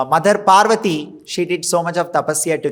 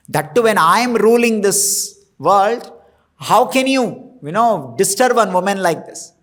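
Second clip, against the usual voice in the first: Indra scolding; 3 semitones higher than usual. Acted. Indra rebukes Lord Shiva for cursing a woman, indignant. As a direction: scold him as an outraged king of gods.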